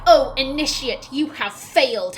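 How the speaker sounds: hammed-up disapproving elder; mock stern mother. Streamer imitates what Havara doesn't say, mock scolding. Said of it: "She's not being like".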